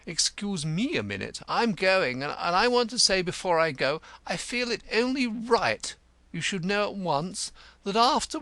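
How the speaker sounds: high, stately theatrical declamation; wounded, pompous Cantercot. Acted. Cantercot taking offended leave of the cobbler, high and stately.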